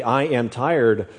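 I am tired, drawn out slowly; slow deliberate I am tired. Shown as a demonstration. Preacher slowing the phrase for the congregation. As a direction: stretch I am tired right out. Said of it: "start rephrasing and rethinking".

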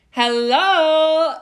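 loud, high incredulous Hello. Real, not acted. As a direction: sell the bargain like it's unbelievable. Bragging about bargain price.

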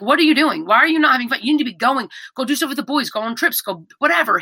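lightly acted pep-talk scolding; imitated exasperated urging. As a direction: urge them on as if quoting a loved one. Voices late partner urging them to live.

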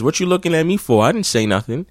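high quick defensive whine; imitating the dude. Dude denies it to the girl, high quick whine. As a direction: rush out a whiny denial. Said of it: "he says".

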